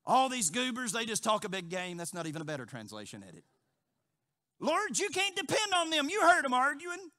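loud, high bragging boast; boastful Peter. Retold or imitated. Peter boasting to the Lord, loud and high. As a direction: brag to the Lord, puffed up. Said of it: "he steps up and he says".

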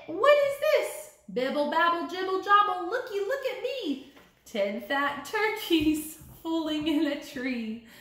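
lively sing-song picture book reading; animated storybook voice with playful chants; reading to children. Acted. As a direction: read it like story time for little kids. Teacher reads picture book aloud.

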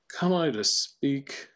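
slow and measured, drawing out "speak"; demonstrated intonation. Shown as a demonstration. Teacher adjusting the pitch curve while reciting, demonstrated intonation. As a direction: test the phrase slowly, stretching each word. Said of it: "how I would say it".

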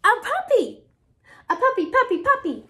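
high, loud excited pigeon. Acted. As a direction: burst out with the wish. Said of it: "we say it all excited".

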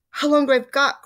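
high, loud, panicky question; anxious cry. A narrator's reading. Frightened Missus Twit asking her husband, crying out. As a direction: cry it out in storybook alarm. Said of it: "cried Missus Twit".

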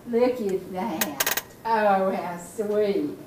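slow, low tender coo. Real, not acted. Grandma cooing over painted toenails, slow tender coo. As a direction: melt over her little toes slowly.

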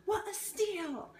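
high, drawn-out mock excitement; hammed-up bargain delight. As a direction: squeal it slowly in exaggerated delight.

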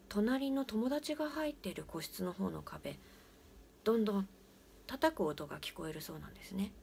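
usual speaking voice

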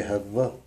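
«хавва» with a lengthened «вв»; variant pronunciation. Shown as a demonstration. Teacher shows the other original form, doubled «вв» in «хавва». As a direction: say «хавва», holding the middle consonant. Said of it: "или же".

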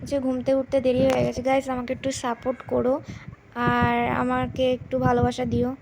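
talking through toothbrush foam; while brushing teeth. Real, not acted. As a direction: mouth full of toothpaste. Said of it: "আমি এখন brush করছি".

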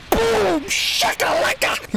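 a high excited boom with a drawn-out shakalaka; hyped-up exclamation. Real, not acted. Reacting to the anime fight, yelling boom shakalaka. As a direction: cheer the hit like a sports announcer.

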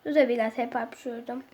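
sore-throated, slightly rough speech; hoarse voice. Real, not acted. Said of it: "sesim biraz kısık gelebilir". (kısık, boğuk ses)

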